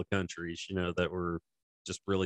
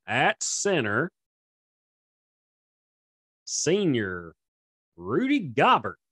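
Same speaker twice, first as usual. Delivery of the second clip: stadium announcer; 5 semitones higher, slower than usual. Pretend. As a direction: boom it out like a PA announcer. Mock stadium announcer intro.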